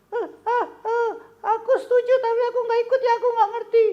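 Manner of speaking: puppet voice. Acted. Puppet Kobon greeting the children, squeaky. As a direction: play a squeaky kid puppet.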